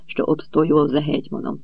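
plain reading voice

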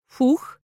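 curious creature huff. A narrator's reading. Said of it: "полюбопытствовал Мифик".

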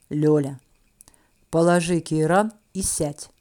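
calm, slow and low. A narrator's reading. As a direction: stay perfectly calm, unhurried. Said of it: "Голос прозвучал более чем спокойно". (спокойно и неторопливо)

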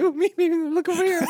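high, small pick-me plea; squeaky mock eagerness; eager volunteer. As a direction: bounce up and down for attention. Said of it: "bouncing around in the back".

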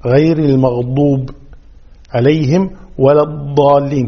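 المغضوب and الضالين with firm emphatic d; dad. Shown as a demonstration. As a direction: press the heavy d in الضالين and المغضوب. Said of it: "كذلك الضاد وليس بالظ". (المغضوب والضالين بالضاد)

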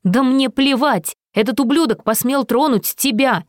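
angry shout; furious. A narrator's reading. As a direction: lash out in protective rage. Angry lover after a quarrel.

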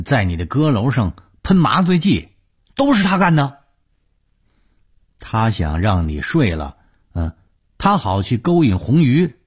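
loud, high-pitched tirade with scornful snorts; angry accusing rant. Acted. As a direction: spit out accusations, pitch leaping on the key words. Villain rants, accusing someone outside. (高声愤愤地数落、揭短)

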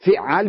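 فعال as "fi‘‘āl", opening with a short i; short i after the ف of فعال; kasra on the fa. Shown as a demonstration. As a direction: say فعال with "fi" first, doubled ayn, long ā. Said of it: "بكسر الفاء".

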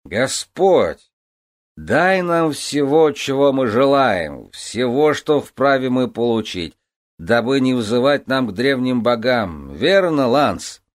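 put-on loud, slow, drunk toast; slurred, pushy and loud; drunken proclamation. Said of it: "с пьяным напором возгласил". (пьяный напористый возглас)

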